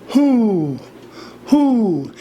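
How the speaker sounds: gliding owl-like "hoo"; owl hoot. Shown as a demonstration. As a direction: demonstrate an owl's long falling hoot. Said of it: "an owl goes".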